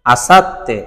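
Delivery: আসাত্তে as asat-te, 't' held; doubled consonant. Shown as a demonstration. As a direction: pause on the 't' in আসাত্তে before 'te'. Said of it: "দুইবার উচ্চারিত হয়েছে".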